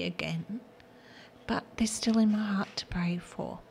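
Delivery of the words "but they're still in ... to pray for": tearful whisper, pitched up; words catching as she fights tears; close to tears. Real, not acted. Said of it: "Now I'm gonna cry".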